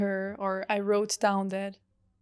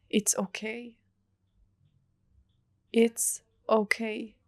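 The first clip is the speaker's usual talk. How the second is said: whispered, softer reassurance to a crying student; 3 dB quieter than usual. Retold or imitated. Teacher comforting a crying retreat student, whispered. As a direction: hush her gently, barely voiced.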